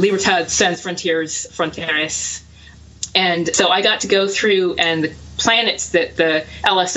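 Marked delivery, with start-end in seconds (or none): 0.0-2.4 Spanish-tinged bad French; attempted Spanish accent. Real, not acted. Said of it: "I actually attempt a Spanish accent".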